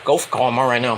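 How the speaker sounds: low, slow wiseguy voice; Tony D'Angelo voice. Retold or imitated. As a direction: lean in like a mob cousin. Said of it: "then we go to Tony D'Angelo".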